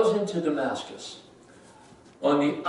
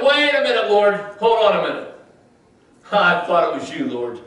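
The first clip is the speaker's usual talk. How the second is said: startled protest. Retold or imitated. Ananias startled by God's request.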